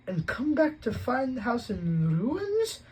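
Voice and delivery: high, loud, slow snarl; furious aunt snarling at the idea. Acted. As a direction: spit it out in outrage. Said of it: "she snarled".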